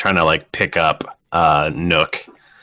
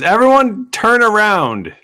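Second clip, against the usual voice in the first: raised, high commanding call, easing off; guard's order; 8 semitones higher, 4 dB louder than usual. Acted. Guard ordering prisoners to turn around, acted command. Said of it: "and he goes".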